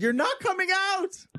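high, strained pretend scream, drawn out; mock scream. Host pretending to taunt a locked-in dad, mock scream. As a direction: scream it in falsetto without real volume. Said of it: "just scream from the outside".

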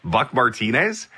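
"Buck Martinez?" asked with a rising, disbelieving tune; half-awake, can't believe who's calling; disbelieving question. Retold or imitated. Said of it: "the actual wording that I used was".

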